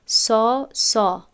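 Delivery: سا said thin, as an untrained student; light flat سا; thin سا the wrong way; light sin. Shown as a demonstration. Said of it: "شاگردی که قبلاً تجوید ناموخته باشد".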